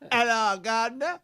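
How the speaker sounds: clumsy copy of a Cockney greeting; failed London accent. Shown as a demonstration. Student copying co-host's phrase, hopeless London accent. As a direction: try London and miss it. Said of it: "it's hopeless".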